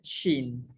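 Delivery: "shin" dropped low and soft; final reading. Shown as a demonstration. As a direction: land on "shin" low, with the sh sound. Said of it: "y dice".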